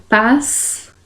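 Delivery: "pás-sa-ro" in separate syllables with long pauses; sílaba por sílaba. Shown as a demonstration. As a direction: split "pás-sa-ro" between the two S's. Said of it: "eles se separam". ("pás-sa-ro" dito pausadamente, sílaba por sílaba)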